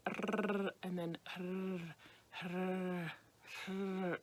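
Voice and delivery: a rolled rrr easing into a soft breathy R; softened R sound. Shown as a demonstration. Teacher softening the Spanish trill for learners. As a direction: let the trill melt into a soft rasp. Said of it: "if you kind of soften that".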